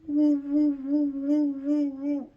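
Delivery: high hooting woo woo like the car's rubbing noise; car noise imitation. Showing viewers the noise his car makes, a high hooting woo. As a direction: mimic the car's whine, way up high. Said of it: "the car goes".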